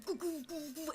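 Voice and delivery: soft, high repeated thuds; hollow little "goo" knocks; imitated fist thumps. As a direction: mimic muffled pounding inside a bubble. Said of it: "you can hear their fist".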